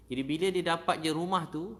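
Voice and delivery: loud, high, swelling with feeling; loud burst of emotion; excited burst. Real, not acted. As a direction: lift it with joy. Emotional high point, restarted.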